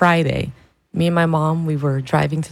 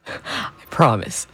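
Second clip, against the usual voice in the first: breathless, laughing through the words; giggling reassurance to mom; laughing promise; 6 semitones lower, slower than usual. Real, not acted. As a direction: promise her while cracking up.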